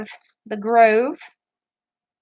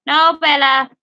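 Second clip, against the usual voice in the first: firm no to the dog; slower than usual. Real, not acted. Dog whining at the gate.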